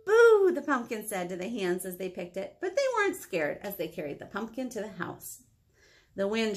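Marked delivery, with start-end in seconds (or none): 0.1-0.5 high, loud little boo; playful scare. Acted. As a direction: boo like a sprout trying to scare. Pumpkin trying to scare the hands.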